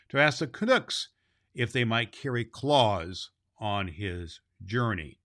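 measured storybook reading; storyteller voice, unhurried; story narration. A narrator's reading. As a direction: read the tale to children. Reads the storybook aloud.

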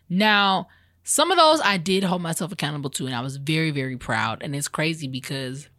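talking while chewing gum; smacking gum between words. Real, not acted. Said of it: "'cause I got this gum in my mouth".

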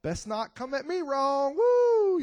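playful threat ending in a high whoop; mock tough attitude. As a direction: warn them off with swagger. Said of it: "and I'm like".

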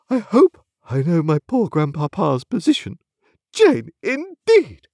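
high, grandly affronted lady; imperious, wounded dignity; majestic haughtiness. A narrator's reading. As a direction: stand on family rank, drawing out the final scoff. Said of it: "with a majestic glance".

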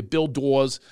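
lightly Philadelphia-accented name; touch of Philadelphia accent on the vowel. Shown as a demonstration. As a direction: say the name like a Philly local. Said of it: "as they say in Philadelphia".

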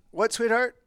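high-pitched husband's query; lilting acted-out question; sweet questioning. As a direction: ask the wife what she means. Husband voices himself answering wife.

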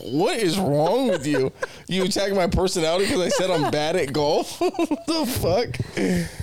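playful outrage, breaking into laughter; mock indignation. Friend imagining being insulted over golf, mock indignant.

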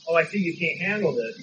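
condescending, looking down on her; a mild mock judgmental pity. Preacher mimics a judgmental bystander, lightly condescending. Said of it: "that judgmental".

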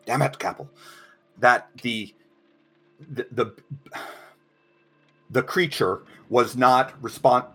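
anxious lawyer stumbling through a rehearsed speech; nervous stuttering lawyer. Acted. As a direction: stammer over every word, losing your nerve. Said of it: "someone's practicing opening statements".

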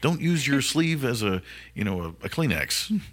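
flight attendant. Pretend. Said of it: "So now it's like".

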